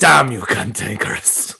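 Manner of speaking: slow, drawn-out hero's curse; mock heroic curse. Host curses the mythical beast, hammed-up hero.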